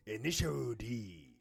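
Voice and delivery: slow, drawn-out mock Japanese accent. Shown as a demonstration. Co-host shows off the anime title, hammed-up Japanese accent. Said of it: "the Japanese accent".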